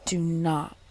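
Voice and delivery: slow, hushed snake voice drawing out the words; hissing snake. A narrator's reading. Snake hissing in the sleeping man's ear, slow and hushed. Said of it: "hissed in his ear".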